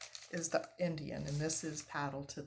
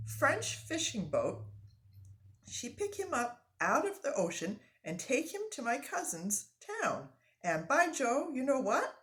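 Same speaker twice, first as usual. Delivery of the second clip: high, loud and eager; bursting to tell the news; French-Canadian accent, thrilled; excited French-Canadian lumberjack; 6 semitones higher, 4 dB louder than usual. Acted. Frenchman excited about toy.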